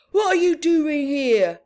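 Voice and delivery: surprised chief. Acted. Fire chief finds kids.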